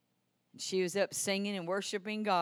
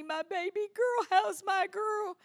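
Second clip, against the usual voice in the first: tender father; 6 dB louder than usual. Retold or imitated. Father greets revived daughter.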